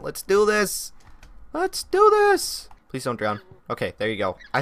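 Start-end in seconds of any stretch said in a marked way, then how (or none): 1.5-2.7 much higher, slow, stretched-out hype; hyped-up cheer. Real, not acted. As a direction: sing it out all pumped up. Hatching progress, hype.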